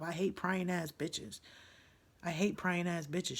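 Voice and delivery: disgusted, deliberate repetition; slow seething emphasis. Real, not acted. Repeating her disgust slowly.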